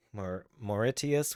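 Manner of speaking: slow stumble on "Mauritius", broken after "Maur-"; unsure pronunciation. Real, not acted. Streamer reading out a country list, stumbling slowly over "Mauritius". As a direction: break off at "Maur-", then slowly attempt "Mauritius". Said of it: "which I can't even pronounce correctly".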